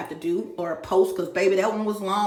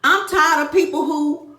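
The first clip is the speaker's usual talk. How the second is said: loud, high, raging tirade; real furious rant; 3 semitones higher, 4 dB louder than usual. Real, not acted. Fed-up woman ranting to her viewers, furious and loud. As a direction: let the anger boil over, louder and louder. Venting anger at stalkers.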